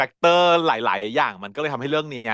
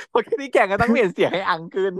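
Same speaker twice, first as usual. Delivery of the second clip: higher mock character voice; raised pitch; 8 semitones higher than usual. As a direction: pitch the voice up high.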